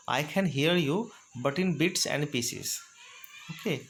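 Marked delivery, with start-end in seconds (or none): 0.1-2.7 slow and clear; word by word for the class; slow model phrase. Shown as a demonstration. Teacher repeating the bits-and-pieces phrase for learners, slow. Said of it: "आपको बोलना है".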